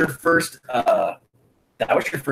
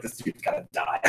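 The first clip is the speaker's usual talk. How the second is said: mock whispered threat; 5 semitones lower, 10 dB quieter than usual. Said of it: "I was like".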